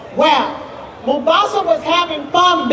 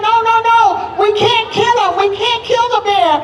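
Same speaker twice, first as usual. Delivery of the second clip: higher, urgent no no no; pleading protest; 5 semitones higher, much faster than usual. Acted. Mubasa begging the father not to kill the bear, urgent higher pleading. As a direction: stop him before he shoots.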